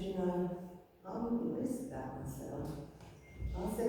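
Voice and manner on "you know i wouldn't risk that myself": gentle. Retold or imitated. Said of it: "I said to her very gently".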